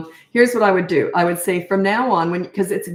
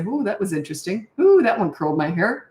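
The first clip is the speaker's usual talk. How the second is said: mock surprise. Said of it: "I'd just say".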